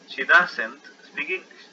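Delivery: She doesn't speak English said very slowly; model sentence. Shown as a demonstration. Teacher reads the negative example to students, very slowly. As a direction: spell it out slowly. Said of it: "Más verbo".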